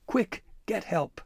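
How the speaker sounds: high, slow crow cry stretching Quick; raucous crow cry. Acted. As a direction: squawk it out slowly and urgently. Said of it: "the crow's raucous cries persisted".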